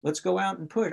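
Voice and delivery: a light take on scrambling for clients; mock scarcity panic. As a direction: imitate your own frantic urge to sell. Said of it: "I did the scarcity energy".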